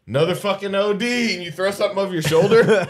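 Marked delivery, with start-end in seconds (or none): 0.1-1.3 weary, unimpressed grumble; bored jaded sigh. Retold or imitated. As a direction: play a fed-up paramedic shrugging it off. Mock bored first responder.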